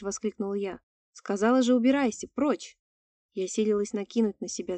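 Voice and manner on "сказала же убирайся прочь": loud frightened yell; shouting. Acted. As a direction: drive it off with a shout. Heroine yells at creature.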